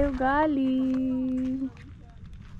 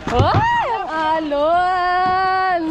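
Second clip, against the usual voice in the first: high startled shout at the wave; startled cry; 6 semitones higher, 3 dB louder, much slower than usual. Real, not acted. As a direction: cry out in surprise.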